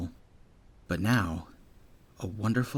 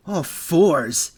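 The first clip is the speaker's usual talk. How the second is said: mock surprised curse; 7 semitones higher, 7 dB louder than usual. Bully swears in surprise.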